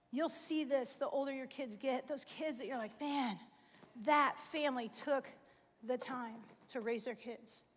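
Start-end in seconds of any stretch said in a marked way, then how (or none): 3.0-7.6 choked up. Real, not acted. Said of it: "I don't know why I got emotional about that".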